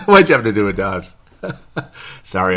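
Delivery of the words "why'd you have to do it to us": laughing repeat. Shown as a demonstration.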